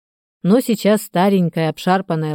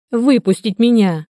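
higher-pitched mild plea; pleading; 5 semitones higher than usual. A narrator's reading. Trapped man to watchman in broken speech, mild pleading. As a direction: beg to be let out, keeping it contained. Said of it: "взмолился Старыгин".

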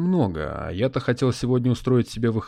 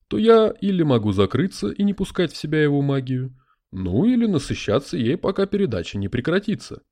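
spirit voice; 3 semitones higher, 3 dB louder than usual. Acted. Spirit in a crystal ball.

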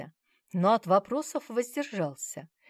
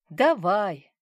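wry grimace; 3 semitones higher, 9 dB louder than usual. A narrator's reading. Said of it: "покривилась я".

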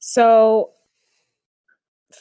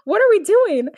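much higher imitated girl's question; Katara; 12 semitones higher, 4 dB louder than usual. Co-host re-enacting Katara for laughs, high-pitched imitation. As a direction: put on a high voice and ask it. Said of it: "Katara's like".

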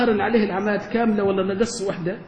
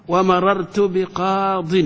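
slow example sentence; much slower than usual. Shown as a demonstration. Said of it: "لا، لا".

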